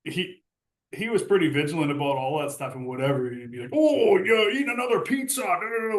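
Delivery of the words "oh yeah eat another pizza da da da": higher, louder mock sarcasm; sarcastic coach. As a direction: needle him like a mocking captain. Strict captain mocked for diet.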